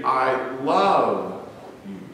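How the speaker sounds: "love" drawn out and falling; stress on LOVE. Shown as a demonstration. Preacher showing how stressing "love" colours the phrase. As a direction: weigh down the word "love". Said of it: "or the "love".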